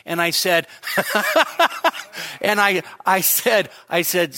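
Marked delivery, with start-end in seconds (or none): 0.8-2.4 bursting high laugh; real laugh. Real, not acted. Preacher laughing while telling the dentist story. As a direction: laugh at your own story.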